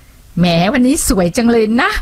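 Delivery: sarcastic. Shown as a demonstration. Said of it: "ประชดประชันแดกดัน".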